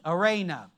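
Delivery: "eirene" said low as ay-RAY-nuh, falling; Greek word. Shown as a demonstration. Pastor repeats "eirene" to the congregation as ay-RAY-nuh. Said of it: "spelled E I R E N E".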